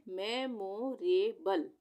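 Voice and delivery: मेमोरेबल drawn out slowly, syllable by syllable; slow blended reading. Shown as a demonstration. Teacher slowly blends मेमोरेबल for students, drawn out. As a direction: read मेमोरेबल slowly, joining the parts. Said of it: "तो अब हम इसको कैसे पढ़ेंगे?".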